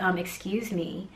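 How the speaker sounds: soft, slow 'excuse me'; polite interjection. Retold or imitated. Mom first approaches the yelling woman, politely. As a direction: try politely to get attention, quietly.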